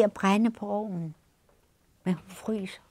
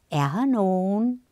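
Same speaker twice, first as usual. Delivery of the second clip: calling out; 3 semitones higher than usual. Acted. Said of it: "så går hun ind og råber".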